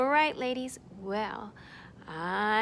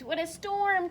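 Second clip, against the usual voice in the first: twittering wren; 4 semitones higher than usual. Acted. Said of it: "twitters wren".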